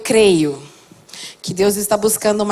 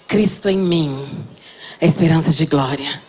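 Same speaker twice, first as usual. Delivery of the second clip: declaração para repetir; 8 semitones lower than usual. Shown as a demonstration. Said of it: "Diga comigo".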